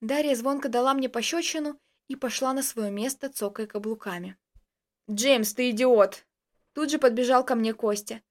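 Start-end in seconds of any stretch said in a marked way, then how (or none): 5.1-6.2 slow, louder indignant insult; angry insult. A narrator's reading. Dasha leaving after slapping James, furious. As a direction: spit the insult at him.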